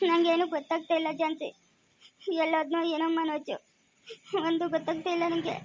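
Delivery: quietly tearful, with halting pauses; soft, helpless near-crying; on the edge of tears. Acted. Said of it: "ಯಾಕೆ ಅಳ್ತಾ ಇದ್ದೀರಾ".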